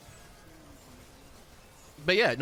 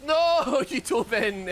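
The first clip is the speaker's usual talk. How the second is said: sudden dismayed shout; 12 semitones higher, 8 dB louder, much slower than usual. Real, not acted. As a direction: yell no at the screen. Teammate dives in.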